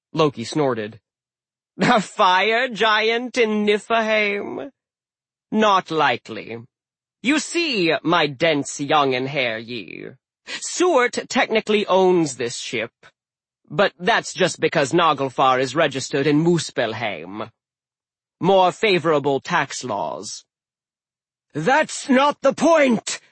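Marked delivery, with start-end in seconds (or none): 1.8-20.4 slow sly trickster; smug scheming god; Loki voice. Acted. 21.5-23.2 slow booming giant yell. Acted. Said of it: "yelled Hrym".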